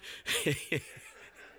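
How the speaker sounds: wheezy, voiceless laughter; helpless chuckle. Real, not acted. Preacher still amused by the distraction, voiceless laughing. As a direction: laugh until the voice drops out.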